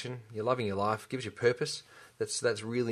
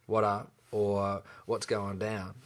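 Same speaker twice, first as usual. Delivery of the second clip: offhand greeting; 3 semitones lower, 3 dB quieter, much slower than usual. Shown as a demonstration. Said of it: "Don't just go".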